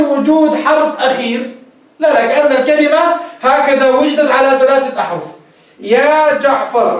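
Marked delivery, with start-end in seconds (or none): 5.8-7.0 drawn-out يا جعفر as a vocative; slow call. Shown as a demonstration. Teacher demonstrating a slow vocative call. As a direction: call يا جعفر slowly with the full final ر. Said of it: "الآن جعفر أسقط الحرف الأخير".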